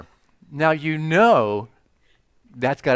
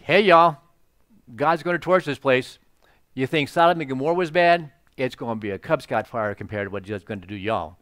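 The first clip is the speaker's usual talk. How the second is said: mock prophet. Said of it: "starts prophesying".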